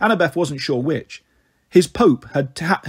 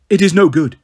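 bold declaration; 6 dB louder than usual. Acted. Annabeth bluffs loudly.

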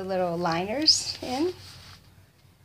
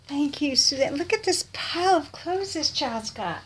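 usual speaking voice

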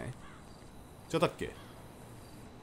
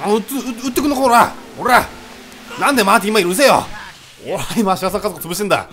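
high, very loud gunfight shouting; combative yell; 7 semitones higher, 11 dB louder than usual. Pretend. Gamer in a shootout with the family, combative mock-angry yelling. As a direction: yell back at whoever is shooting.

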